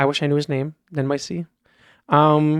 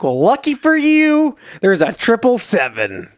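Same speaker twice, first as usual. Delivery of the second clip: high, slow, drawn-out mock announcement; retold excitement; 5 semitones higher, slower than usual. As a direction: play up the lucky reveal, stretching it out. Retold friend excitedly announces lucky find.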